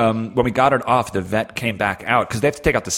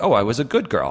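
a dog's pleased little realisation; lightly voiced dog taking in praise; dog hearing praise. Host voices a dog reacting to an approving tone, lightly pleased. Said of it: "they can react to tone and intonation".

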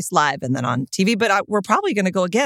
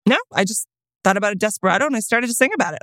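put-on insistent child; faster than usual. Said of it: "She's like".

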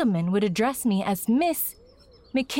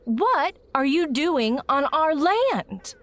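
stern demand; 6 semitones higher, slower than usual. Acted. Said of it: "she said again".

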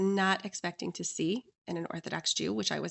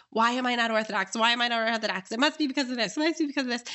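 mildly frantic self-questioning; grasping at straws; 3 semitones higher, faster than usual. Retold or imitated. Guest grasping at straws at the kitchen table, mildly frantic. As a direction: repeat it like someone hunting for excuses. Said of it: "I was, like, grasping at straws".

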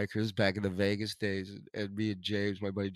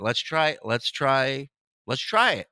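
hyped build-up; 7 dB louder, slower than usual. Real, not acted. Building up to the segment.

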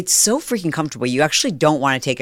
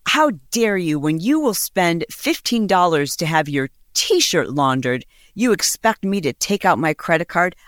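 mock outraged girlfriend; 4 semitones higher than usual. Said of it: "she was going ballistic on him".

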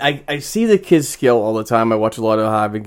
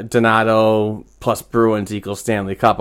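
mocking fans. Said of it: "they were like".

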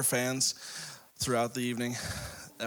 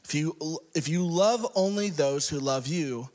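measured, emphatic Bible reading; scripture reading; 2 semitones higher than usual. Acted. Preacher reading Luke six to congregation, emphatic delivery. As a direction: read it out with rising emphasis and pauses.

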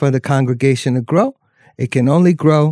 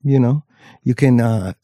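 slow, drawn-out preacher cadence; lightly voiced Southern preacher; slower than usual. Preacher voice announcements.

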